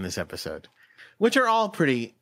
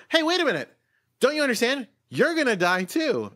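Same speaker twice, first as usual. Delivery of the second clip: lightly voiced heroes pleading, pitched up; higher pleading heroes; 10 semitones higher than usual. Heroes plead with villain, lightly voiced and higher. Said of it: "they say to her".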